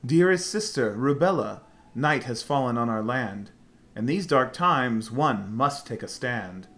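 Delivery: theatrical rhyming recitation; dramatic letter reading. Acted. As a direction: read the letter like a stage poem. Reads character's rhyming letter.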